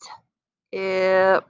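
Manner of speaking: a hushed t, then the sound; whispered start. Shown as a demonstration. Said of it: "Do it again".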